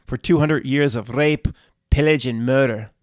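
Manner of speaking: badly imitated Scottish film-hero line; bad Scottish accent. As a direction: attempt a Scottish accent, hitting the key words. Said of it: "That was not a good Scottish accent".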